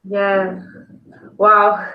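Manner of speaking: ordinary talk, nothing marked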